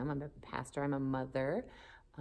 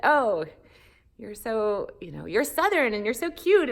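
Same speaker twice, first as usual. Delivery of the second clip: higher, louder, gushing mock of northern classmates; cutesy gushing friends; 8 semitones higher, 9 dB louder than usual. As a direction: gush over her like she's adorable. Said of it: "And everyone said".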